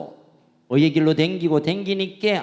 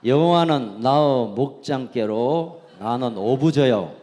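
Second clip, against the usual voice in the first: Jeolla dialect; 3 semitones lower than usual. Pretend. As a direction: read the verse like a Jeolla local. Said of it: "저 내비가 전라도 말입니다". (전라도 사투리로 시편 읽기)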